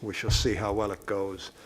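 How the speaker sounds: muffled through a face mask; talking through a mask. Real, not acted. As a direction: speak through a mask over the mouth. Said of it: "talking through a mask".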